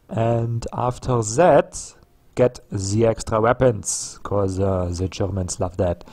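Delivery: badly faked movie-German accent slipping into French; mixed German-French accent. Gamer playing evil movie German general, muddled German accent. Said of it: "mixing my German accent with French".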